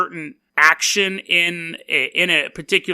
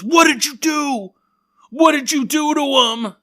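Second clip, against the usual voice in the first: higher, louder accusing principal; stern principal; 8 semitones higher, 3 dB louder than usual. Retold or imitated. Principal to the student who flicked the cheese, higher accusing demand. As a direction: demand it like an alarmed head teacher. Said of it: "The principal goes".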